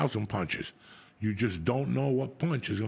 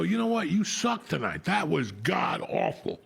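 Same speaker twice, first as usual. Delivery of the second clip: brutal friend; 4 semitones higher, slower than usual. Retold or imitated. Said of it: "My friends will look at you and go".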